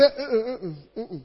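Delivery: mock "uh, uh" dragged out slowly; slow drawn-out refusal. Preacher mimicking the girl who kept refusing him, slow drawn-out "uh, uh". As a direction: stretch each "uh" like a stubborn no.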